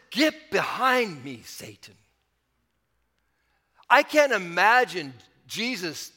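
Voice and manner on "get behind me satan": harsh rebuke. Retold or imitated. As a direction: retell a stern rebuke, slowly. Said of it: "and it seems harsh".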